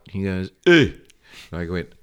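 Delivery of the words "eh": grunt. Retold or imitated. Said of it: "you just grunt. It's a grunt".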